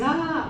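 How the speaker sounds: short, high mock cry at normal volume; normal sister's cry. Showing how normal sisters cry, a modest mock cry. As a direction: imitate an ordinary little wail. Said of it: "las hermanas normales cuando lloran dicen".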